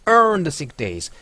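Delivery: slow, earned stressed; slow demo of earned. Shown as a demonstration. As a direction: land on earned. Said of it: "earned 역시 강세가 들어갔고".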